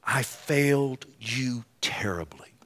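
slow hushed whisper of shame; a broken whisper owning up to failure; whispered confession. Retold or imitated. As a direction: breathe the confession out, barely voiced. Peter confessing to Jesus.

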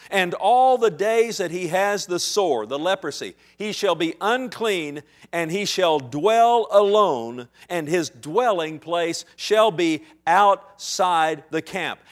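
slow, loud, measured reading of the law; solemn scripture reading. Acted. Preacher to the congregation, reading Leviticus in a slow solemn voice. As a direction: read the verses slowly and gravely.

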